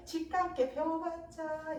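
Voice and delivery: slow, drawn-out dismissive singsong; scornful. Acted. So Unseong belittling Songgi's new learning, scornful. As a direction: scoff lightly, stretching the last syllable. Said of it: "소은성도 한편으로는 우습게".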